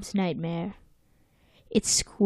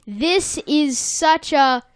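Squidward; 6 semitones higher, slower than usual. Acted. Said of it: "Squidward's like".

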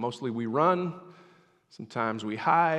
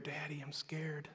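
whispered plea to Daddy; barely voiced, small and scared; frightened child's whisper; 3 semitones higher, 13 dB quieter than usual.

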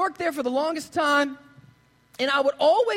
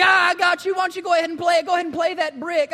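imitating a gloating dad, higher and louder; mock triumph over the prank; 4 semitones higher, 3 dB louder, faster than usual. Dad gloating over the brick prank at his son, teasing. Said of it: "his dad is, like, loving it".

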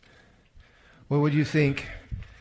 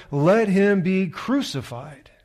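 higher, louder, slow shout; 7 semitones higher, 6 dB louder, slower than usual. A narrator's reading. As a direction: shout it slowly to the crowd. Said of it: "But they shouted all the more".

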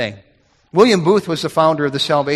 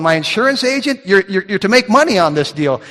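higher, louder mock disbelief; incredulous retort; 4 semitones higher, 3 dB louder than usual. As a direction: act baffled that your own agent talks you out of it. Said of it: "I'm going".

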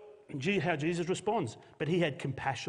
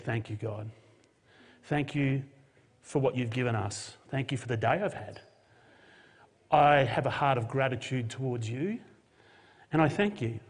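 grateful prayer. Acted. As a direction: pray it gently to God. Jesus voiced giving thanks.

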